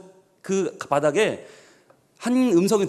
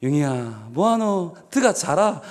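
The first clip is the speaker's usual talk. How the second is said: pitying Gyeongsang voice; 2 semitones lower, slower than usual. Retold or imitated. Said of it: "하나님이 얼마나 날 보기 안쓰러우셨으면".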